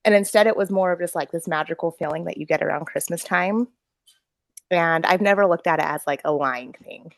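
winded after running upstairs; out of breath. Real, not acted. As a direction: talk while still out of breath. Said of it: "I'm out of breath now from sprinting".

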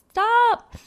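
high, sharp stop; sharp self-scolding. Real, not acted. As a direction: snap at yourself to stop.

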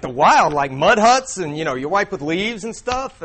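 lightly hammed-up dismay, stretched out; mock freak-out. Retelling the lion's horror at the wild, mock freak-out. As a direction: act mildly appalled, ending on a question. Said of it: "Alex is freaked out".

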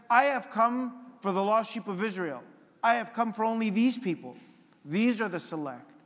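lightly voiced Lord testing the woman's faith.

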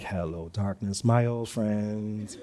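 soft, very slow and low, mock-mournful; weary and low. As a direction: drag it out like a tired lament. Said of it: "I'd just be like".

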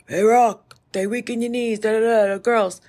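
a hint of gruff old trainer Mickey; lightly voiced boxing coach giving advice; quoting Mickey from Rocky, lightly voiced; Mickey impression. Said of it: "Mickey was like".

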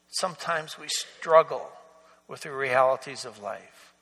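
hushed sermon-ending prayer; closing prayer. Acted. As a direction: pray it humbly, letting the voice sink away. Pastor leads closing prayer.

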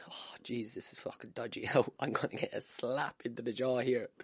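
hushed, under the breath; nervous aside. Retold or imitated. Boxer dreading the fight ahead, hushed aside. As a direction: mutter it softly to yourself.

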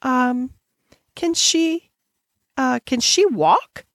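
hesitant, high, wondering question; falter, then ask slowly in wonder; breathless awe with halting starts. A narrator's reading. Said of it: "she asked breathlessly".

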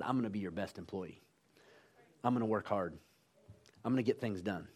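low, soft retold pledge; humble promise. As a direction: pledge it quietly to the new boss.

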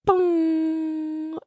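long held bong like a chime; imitated bong. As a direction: ring it out like a timer chime. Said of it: "and then it goes".

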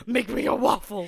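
loud, laughing order; mock wife ordering Rufus; laughing demand. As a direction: bark it through a laugh.

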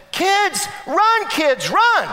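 high, loud call out the window; yelling to kids. Retold or imitated. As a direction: shout a warning to the kids in the yard. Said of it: "yells out to them and says".

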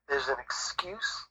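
whispered aside in a sermon-like build; sudden whisper. Acted. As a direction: drop to a breathy whisper on the last item of the list.

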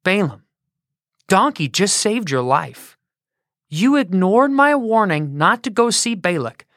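a solemn deep divine voice; voice of God. Acted. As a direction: speak as God, grave and firm. God speaks to Balaam.

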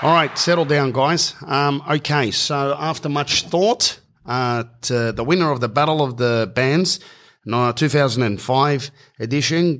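a hint of a pompous organiser reading out the result; Mark's voice. Organiser announcing the band winners to the crowd, mildly mock-official. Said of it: "Mark goes".

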